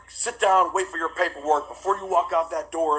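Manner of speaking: mock stern order. Judge ordering him to wait for paperwork, mock stern. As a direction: imitate a judge laying down the law.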